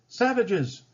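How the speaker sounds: hammed-up panicked shriek of a greedy governor. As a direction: shriek the alarm like a frightened governor. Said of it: "shrieked Ratcliffe".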